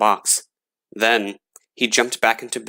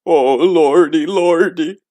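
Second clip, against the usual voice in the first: higher, slower, louder terrified plea; frightened cry; 7 semitones higher, 5 dB louder, slower than usual. A narrator's reading. Gravedigger shaking in bed, higher frightened cry. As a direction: quake out the words in terror. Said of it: "shivered and shook and cried".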